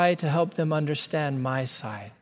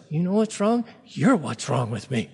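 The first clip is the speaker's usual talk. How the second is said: irritated retort. Retold or imitated. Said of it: "I was just so irritated with her".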